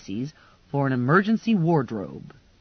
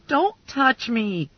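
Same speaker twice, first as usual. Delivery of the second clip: mild shriek; 6 semitones higher, slower than usual. A narrator's reading. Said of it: "I shrieked".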